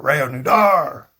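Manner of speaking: slow, careful Reanudar with a falling end; Spanish pronunciation. Shown as a demonstration. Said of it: "That would be what I say".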